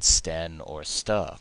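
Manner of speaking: sten and ster drawn out slowly, each ending spelled clearly; slow ending demo. Shown as a demonstration. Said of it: "before you add".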